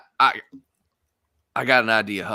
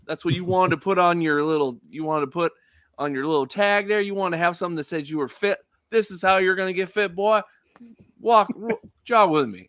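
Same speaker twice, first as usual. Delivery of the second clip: higher, put-on coaching patter; out-loud jogging coach; 7 semitones higher, faster than usual. Character coaches Hux on jogging as cover, out loud. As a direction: instruct out loud, for everyone to overhear. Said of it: "he, like, says out loud".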